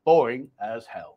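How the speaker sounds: deadpan sting. Shown as a demonstration. Punchline of rereading comment.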